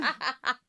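"Acronym" pushed out deliberately; second try at acronym. Real, not acted. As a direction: finally land the word "Acronym". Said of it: "You can't even say".

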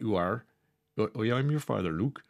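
half-hearted West Country farmer; rough West Country accent. Retold or imitated. Presenter imitating Darth Farmer for listeners, rough West Country accent. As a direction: have an unsure go at West Country. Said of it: "I don't know what a West Country accent sounds like".

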